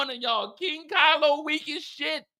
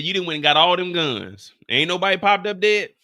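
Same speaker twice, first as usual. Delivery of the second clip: mock poet quote; 6 semitones lower, 4 dB louder than usual. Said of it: "a famous poet that once said".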